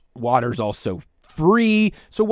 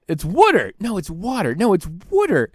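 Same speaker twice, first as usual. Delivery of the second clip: Philly water; 4 semitones higher than usual. Retold or imitated. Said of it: "and he said".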